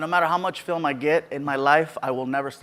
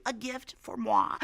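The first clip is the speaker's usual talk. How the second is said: slow, high, softened put-on voice; mock coy fan; 6 semitones higher, 8 dB quieter, slower than usual. Comedian voicing a fan hoping for a gift, coy high voice. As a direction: draw it out high with coy delight.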